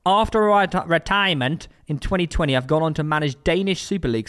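measured, announced quiz clue; quiz riddle read-out. Pretend. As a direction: read out a who-am-I riddle, spacing the list.

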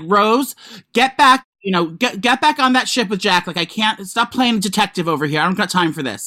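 lightly imitated Boston accent; mock Boston accent. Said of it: "this fucking Boston accent".

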